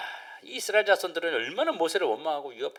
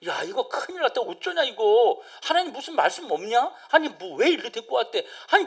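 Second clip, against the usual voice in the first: panicked murmuring crowd; 6 semitones higher than usual. Retold or imitated. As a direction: play the frightened people complaining among themselves. Pastor voices panicked Israelites murmuring.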